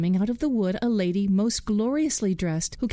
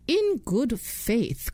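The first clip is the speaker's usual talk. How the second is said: eager cry; 4 semitones higher, much slower than usual. Acted. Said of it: "cried the mother".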